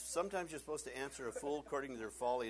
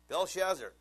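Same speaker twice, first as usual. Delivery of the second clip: loud answer; 7 semitones higher, 11 dB louder than usual. Acted. Answer to soldiers.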